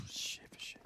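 frustrated whisper; whispered curse. Real, not acted. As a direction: hiss it under your breath. Frustrated aside under breath.

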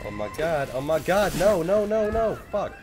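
very high, loud desperate no's; rising panic into curse; panicked yelling. Real, not acted. Panicked dying.

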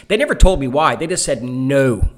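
loud, frustrated complaint. Real, not acted. Complaining about the ban.

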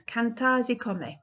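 cantarsi come said /kʰæ̃ntɑzikʰ ɑmɪ/ in an English accent; bad Italian accent. Shown as a demonstration. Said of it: "diabolical Italian accent".

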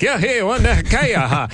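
high hammed-up chief gibberish; American Indian gibberish voice. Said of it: "And I'd be like".

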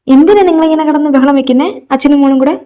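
loud, exasperated scolding. Acted. Mother to father and daughter making noise, scolding. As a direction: raise your voice to break up the racket.

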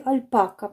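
"альпака" stressed on -па-; middle-syllable stress. Shown as a demonstration. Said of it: "що так правильно".

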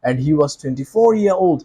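slow, even story narration; storytelling voice. Shown as a demonstration. Teacher shows the storyteller's voice, slow and even. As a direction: tell it like a bedtime tale. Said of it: "এটা আমার story voice".

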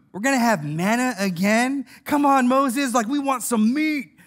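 mildly whiny mock complaint; complaining. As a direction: imitate people grumbling about dinner. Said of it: "They complained about the food".

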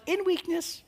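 "In weakness" very soft and high, barely there; tiny print voice. Shown as a demonstration. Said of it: "the little tiny thing in the bottom says".

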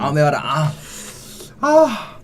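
loud, high cry at the heat; mouth burning from spicy food. Real, not acted. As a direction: yelp from the burning spice. Pepper too hot.

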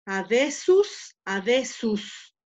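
adesus said slowly, twice; slow, drawn-out adesus; slow careful Latin. Shown as a demonstration. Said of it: "fíjate muy bien". (adesus, despacio para el alumno)

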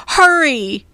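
urgent, high call; calling back. A narrator's reading. Annie calls back to Jack to hurry, urgent high call. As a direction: call out urgently to someone lagging. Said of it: "Annie called back to him".

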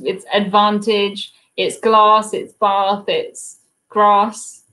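southern English long 'ah' in each word; South Coast accent. Shown as a demonstration. Explaining to James where they're from, South Coast English accent. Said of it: "I'm from the South Coast".

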